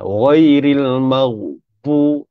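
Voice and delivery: ghairil maghbu slow and drawn out; recitation demo. Shown as a demonstration. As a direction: recite it slowly. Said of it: "menyebut huruf dha". (bacaan perlahan ghairil maghbu)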